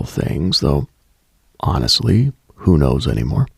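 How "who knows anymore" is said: normal talking voice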